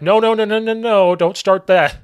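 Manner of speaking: retold protest. Denying to angry rival coach.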